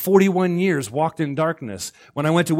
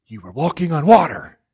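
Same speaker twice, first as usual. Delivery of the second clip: incredulous; 5 dB louder than usual. Acted. Acts Jesus incredulous at Peter.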